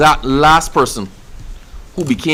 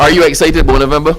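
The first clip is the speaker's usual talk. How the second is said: louder, faster hype question; rousing excited ask; 5 dB louder, faster than usual. Shown as a demonstration. Hyping up the room about November, louder and fast. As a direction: pump up the room. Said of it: "let me hear it".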